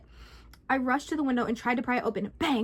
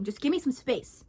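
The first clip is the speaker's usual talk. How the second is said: groaning. Acted. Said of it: "He groaned".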